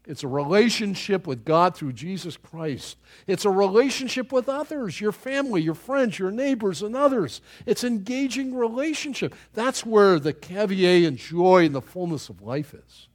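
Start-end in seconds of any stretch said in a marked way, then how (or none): none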